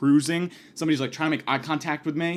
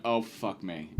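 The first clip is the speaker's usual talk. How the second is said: much lower and softer groaned aside; dismayed girlfriend; 6 semitones lower, 7 dB quieter, slower than usual. Retold or imitated. Girlfriend realizing they met the wrong guy, muttered groan. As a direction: mutter it in despair. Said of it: "She went".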